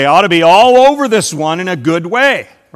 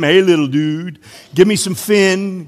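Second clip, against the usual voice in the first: California surfer. Retold or imitated. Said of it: "talked like a California surfer".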